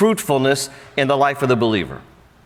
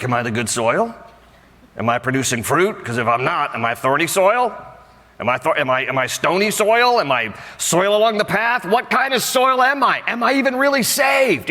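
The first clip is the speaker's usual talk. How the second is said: anxious self-questioning; 2 semitones higher than usual. Retold or imitated. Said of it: "try to think".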